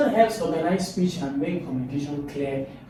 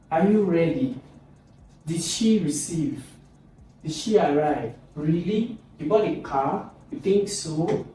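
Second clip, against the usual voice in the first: questions pitched up, lifting on SO; rising intonation; 3 semitones higher than usual. Shown as a demonstration. Teacher modelling doubtful questions, rising intonation. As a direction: lift each question in doubt. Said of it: "let's move to the rising intonation".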